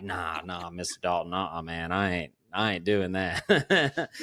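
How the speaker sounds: mild mock of Devin saying no; young guy refusing. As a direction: brush off the old man's advice. Devin refusing haircut, imitated.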